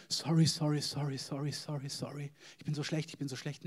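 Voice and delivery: mock grovelling apology. Preacher mimics a guilt-ridden believer before God, mock grovelling.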